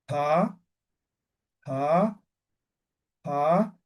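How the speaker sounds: "pa" with a strong puff of breath after the p; aspirated pa. Shown as a demonstration. Teacher blowing on a sheet of paper to show the aspirated P, a breathy "pa". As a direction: blow the "pa" out so the paper moves. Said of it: "La aspirada es como soplando".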